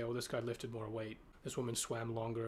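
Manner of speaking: ordinary delivery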